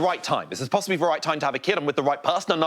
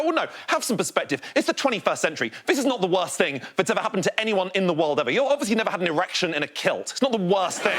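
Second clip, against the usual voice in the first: higher-pitched indignant reply; exasperated retort; 3 semitones higher than usual. Acted. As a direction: set a whining friend straight, exasperated. Exasperated reply to complaining parents.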